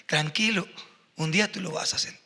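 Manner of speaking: whispered, fast and gentle; whispered comfort from father to small son; soft reassuring whisper. Retold or imitated. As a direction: hush him kindly, almost breathless. Father reassuring his little son.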